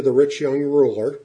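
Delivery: rich lifted with a rising tune; stress on rich. Shown as a demonstration. Preacher stressing rich to the congregation. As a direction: lean on the word rich in rich young ruler. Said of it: "I emphasize the word rich".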